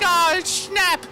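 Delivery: high-pitched imitation of a surprised kid; mock girl's gasp. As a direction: squeak it out like a startled girl. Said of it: "she's like".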